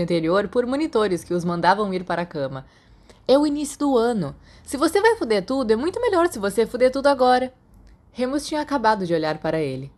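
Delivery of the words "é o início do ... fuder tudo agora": teasing friend voice. Acted. Sirius teasing Remus about school.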